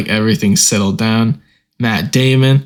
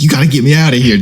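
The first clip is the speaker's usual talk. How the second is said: panicked, louder and higher plea; imitating a cop begging to be pulled out; mock freaking out; 3 semitones higher, 3 dB louder, faster than usual. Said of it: "and he's freaking out".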